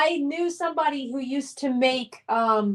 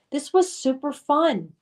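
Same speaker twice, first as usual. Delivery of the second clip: whispered sign-off. Real, not acted. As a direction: whisper it warmly to viewers. Signing off the stream.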